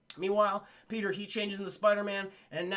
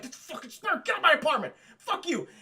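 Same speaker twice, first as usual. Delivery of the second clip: higher, loud angry yell; 7 semitones higher, 4 dB louder, faster than usual. Retold or imitated. J J yelling at the crowd to get out, higher and loud. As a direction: bark them out of the apartment. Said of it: "J J's like".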